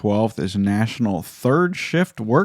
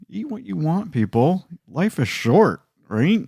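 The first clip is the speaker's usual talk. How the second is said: high, punchy rallying cry; excited; 8 semitones higher than usual. Real, not acted. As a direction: pump the listeners up. Rallying listeners to indulge.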